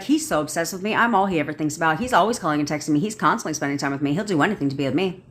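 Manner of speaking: quick, sure affirmations with backbone; certain tone. Shown as a demonstration. Coach showing clients affirmations said with certainty. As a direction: state each one as plain fact, no doubt. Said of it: "Certainty, a surety in my tonality".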